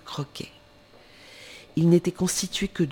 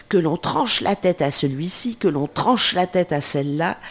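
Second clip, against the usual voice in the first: furious shouting queen; 2 semitones higher, 4 dB louder than usual. Acted. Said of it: "en trépignant et en criant".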